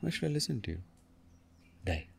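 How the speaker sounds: a hint of a stern goddess, fading down; Kali's voice. A touch of Kali scorning a devotee. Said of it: "That's Kali".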